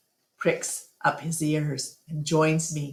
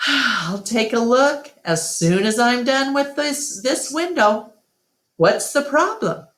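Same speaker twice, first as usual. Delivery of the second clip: lightly voiced George; 8 semitones higher, 3 dB louder than usual.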